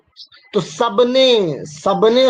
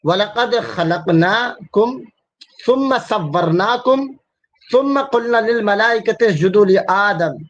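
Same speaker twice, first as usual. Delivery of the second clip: Quran recitation; 2 semitones higher than usual. Acted. Recites Quranic verse in Arabic.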